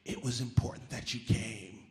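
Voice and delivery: slow, earnest "It was important"; earnest old lady. Retold or imitated. Old lady earnestly thanking the comic. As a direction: lean in and mean it. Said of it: "really old white lady".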